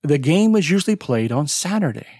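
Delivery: quick line with game, usually, played, Saturday lifted. Shown as a demonstration. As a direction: run it fast and hit the content words. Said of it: "content words are louder and longer".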